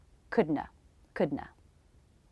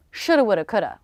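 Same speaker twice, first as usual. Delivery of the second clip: rueful phrase; 3 dB louder, faster than usual. Shown as a demonstration. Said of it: "a phrase we sometimes use".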